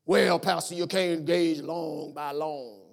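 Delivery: slow, drawn-out objection; a lightly voiced skeptic dragging it out; doubter objecting. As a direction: churchgoer objecting to the pastor, slow. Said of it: "then what does that mean?".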